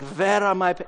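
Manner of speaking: slightly hammed German accent. Shown as a demonstration. Improv student asking for papers, German accent. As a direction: do your best German accent, just a taste. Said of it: "with your best German accent".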